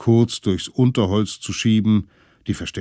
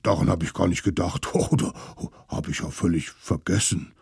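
apologetic mammoth; 3 semitones lower, faster than usual. Acted. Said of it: "Das Mammut entschuldigte sich vielmals".

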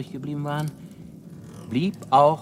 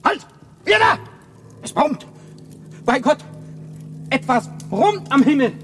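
high, loud alarmed cry across the camp; alarmed shout; 13 semitones higher, 7 dB louder than usual. Acted. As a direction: yell a warning at the others. Ruft alarmiert ans Feuer. (alarmierter Schrei an die Leute am Feuer, hoch und laut)

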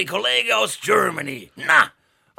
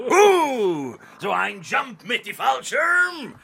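loud, brash American Santa shouting; Texan Santa loudly greeting Petra; American accent; 3 semitones higher, 5 dB louder than usual. Acted. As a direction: boom it like a Texan showman.

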